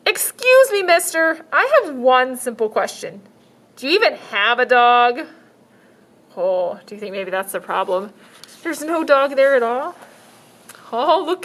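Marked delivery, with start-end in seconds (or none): 0.1-5.3 put-on little girl voice. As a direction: insist like a stubborn child. Girl asks.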